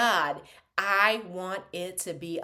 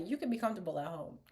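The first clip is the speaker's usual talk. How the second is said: softer, quicker, breaking into laughter; giggly quote; 8 dB quieter, much faster than usual. Retold or imitated. Retelling the queen's line while laughing. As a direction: try to say it but crack up. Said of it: "I'm gonna tell it to somebody".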